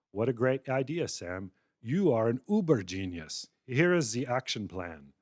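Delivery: gushing flattering AI assistant voice; sycophantic chatbot. Acted. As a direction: lay the flattery on thick, confidently. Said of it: "every trick of sycophantic anthropomorphizing".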